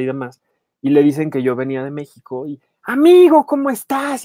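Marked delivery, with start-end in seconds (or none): 2.8-4.2 put-on high, loud Cuban accent greeting. Actor greeting the reporter on set in a Cuban accent. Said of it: "porque el acento cubano".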